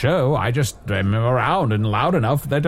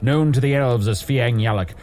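a boastful champion reciting his titles, partly slowed; lofty hero proclamation; 4 semitones higher than usual. Acted. The hero Usador announcing himself in the tavern, grandiose proclamation. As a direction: proclaim your many names like an epic hero.

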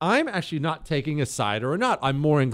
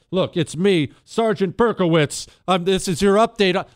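mock detective; 4 semitones higher, 4 dB louder than usual. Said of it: "I'll be".

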